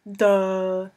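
dopey, slack-jawed Duh; mock dim-witted grunt; dumb Duh. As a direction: play him as a total dimwit. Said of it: "That's what he would have said".

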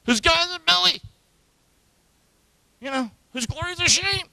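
high, frazzled mock reading; worn-out reading. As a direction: read it as if the verse wears you out. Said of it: "I got wore out with that verse".

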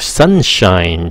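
slow sunshine. Shown as a demonstration. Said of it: "chính xác như sau".

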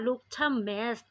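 "Looked a mess" run as look-tha-mess; linked sounds. Shown as a demonstration. Teacher shows linking, "Looked a mess" as look-tha-mess. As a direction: carry the t of "Looked" into "a". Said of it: "เอาตัวทอทหารมาก็จะเป็น".

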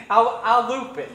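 slow words through laughter; laughing. Real, not acted. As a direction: laugh while answering. Laughing after the challenge.

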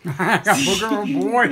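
laughing. Real, not acted. Laughing after tasting booger bean.

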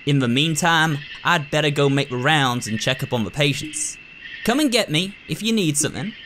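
lightly voiced folksy rural doctor, blunt; a hint of a no-nonsense backwoods doctor; gruff country doctor. Doctor lecturing the new nurse, lightly folksy and blunt.

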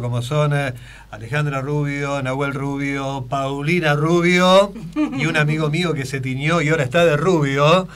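lightly voiced TV presenter sending greetings; Juan Alberto Mateico impression. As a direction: reel off gushing hellos, stretching the names. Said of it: "Está Juan Alberto Mateico".

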